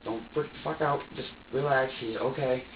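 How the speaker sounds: calming self. Retold or imitated. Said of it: "I just try to remain calm".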